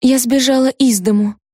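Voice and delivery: ordinary delivery, nothing marked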